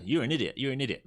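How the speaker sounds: lightly voiced self-insulting inner critic; the nagging mind chatter, mildly acted. Trader voicing the chatter in his head, mild mock insult. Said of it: "The chatter".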